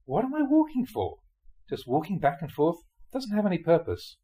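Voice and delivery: a touch of mock exasperation; fed-up inner question. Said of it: "and I thought".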